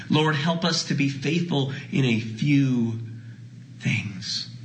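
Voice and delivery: slow, fading to a hush; a gentle, fading prayer. Real, not acted. Quiet prayer.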